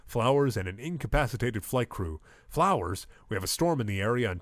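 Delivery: lightly voiced TV news anchor. Anchor reporting a developing airport emergency, news anchor delivery.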